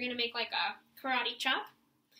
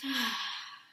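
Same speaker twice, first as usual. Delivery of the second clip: release sigh; 2 semitones lower than usual. Shown as a demonstration. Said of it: "And release".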